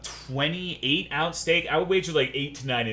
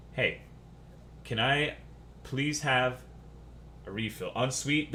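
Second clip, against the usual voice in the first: softer, unhurried courteous asking with pauses; polite request; 7 dB quieter than usual. Retold or imitated. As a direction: ask gently and politely. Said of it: "I'm always super polite".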